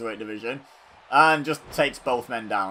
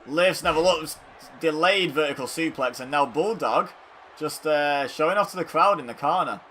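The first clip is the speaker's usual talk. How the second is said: live play-by-play; 3 semitones higher, 5 dB louder than usual. Real, not acted.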